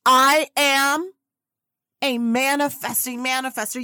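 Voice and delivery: loud affirmation call to the back row. Real, not acted. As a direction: project it to the people in the back. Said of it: "One more time for the people in the back".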